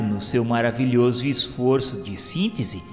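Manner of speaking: ordinary talk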